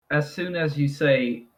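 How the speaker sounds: normal talking voice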